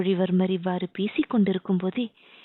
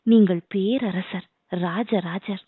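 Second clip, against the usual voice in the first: awed hush; slower than usual. Acted. Inbavalli names his new rank.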